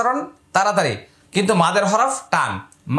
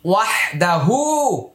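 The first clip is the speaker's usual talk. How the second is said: slow recitation. Shown as a demonstration. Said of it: "এটা এক আলিফ টান।".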